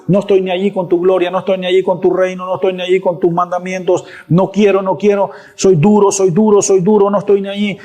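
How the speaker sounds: quick-fire mock stubborn refusals; defiant Israel. Preacher playing Israel rejecting God, mildly defiant. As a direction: rattle off a hammed-up refusal, fast and repetitive. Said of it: "Israel dándole y dándole, pecando".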